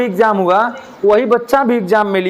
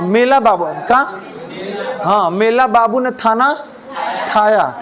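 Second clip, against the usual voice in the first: put-on baby talk. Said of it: "ऐसा नहीं बोलते हैं".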